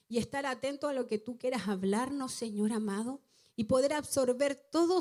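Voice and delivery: prayer voice, calling out Señor amado again and again; fervent prayer. Acted. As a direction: lead the church in earnest prayer. Dirige una oración a la congregación. (oración ferviente de pastora)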